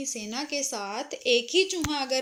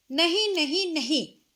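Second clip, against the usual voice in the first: flat refusal; 3 semitones higher, 4 dB louder than usual. Acted. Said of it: "दर्जी ने साफ मना कर दिया".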